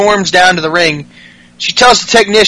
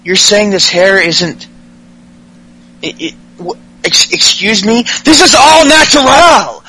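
mock outrage; 2 semitones higher than usual. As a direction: sputter then explode, offended about his hair. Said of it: "Tyler Breeze fucking loses it".

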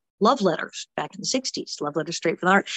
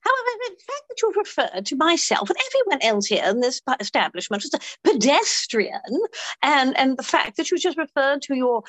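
put-on British accent. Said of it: "I've been British all week".

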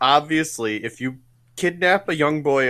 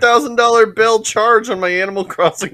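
mock panicked voice; 5 semitones higher, 8 dB louder than usual. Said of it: "So it's like".

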